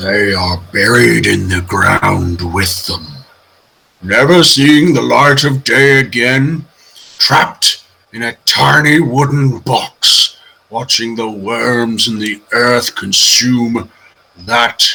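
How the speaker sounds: menacing, looming, stern, ominous giant bear voice. In a role-playing game, the storyteller speaks as a massive brown bear toy. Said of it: "the brown bear just sort of like stoops down on the shelf and sort of like, he, like for somehow he's managed to stretch himself, or just he's that massive".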